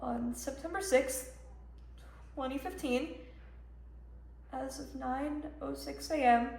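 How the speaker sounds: soft, halting read of an alert; stunned reading aloud. Acted. Mother reading the school shooting alert, stunned. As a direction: read it out piece by piece, in shock.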